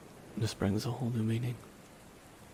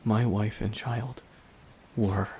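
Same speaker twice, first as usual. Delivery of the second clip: slow, louder, grief pressing through each word; anguished grief; 4 dB louder, slower than usual. Acted. Grieving man tells the fallen hero of his lost wife and child, slow anguished grief. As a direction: drag it out like the loss still burns.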